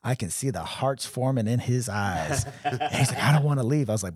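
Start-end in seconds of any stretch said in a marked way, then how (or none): 3.2-3.9 laughing, whiny "don't wanna leave"; love-struck whine through laughter. Retold or imitated. Buddy smitten at strip club.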